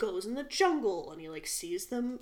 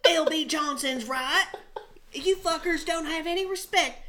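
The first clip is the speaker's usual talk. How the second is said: loud, higher put-on movie accent; exaggerated accent, pitched up and defiant; Zac Efron; 6 semitones higher, 5 dB louder than usual. Mocking an actor's war speech, hammed-up fake accent. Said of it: "he doesn't talk like that".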